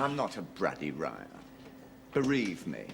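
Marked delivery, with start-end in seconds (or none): 0.0-1.3 low mock Japanese accent echoing her. Husband echoing his wife's mock Japanese accent in denial.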